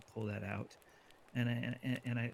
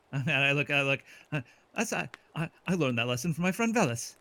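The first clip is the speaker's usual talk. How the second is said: laughing; 3 semitones higher, 6 dB louder than usual. Acted. Laughing in-character joke.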